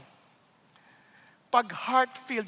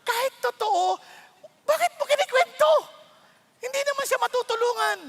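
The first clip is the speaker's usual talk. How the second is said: higher, louder challenge; challenging; 10 semitones higher, 4 dB louder than usual. Real, not acted. Pastor challenging the church about gossip, raised. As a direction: demand an answer.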